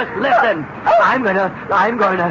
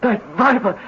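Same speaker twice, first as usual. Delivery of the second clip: melodramatic moan; 6 semitones lower, 4 dB quieter than usual. Acted. Melodramatic despair.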